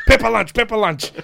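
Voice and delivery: high, loud gleeful chant; imitated excited nickname call. Imitating the referee hailing him by his nickname, loudly excited. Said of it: "That was my name the whole tour".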